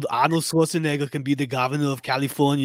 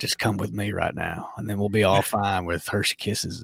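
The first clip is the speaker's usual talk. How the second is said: Matthew McConaughey impression; 3 semitones lower, 4 dB quieter than usual. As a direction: coax like a chill McConaughey. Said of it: "I was doing my best Matthew McConaughey".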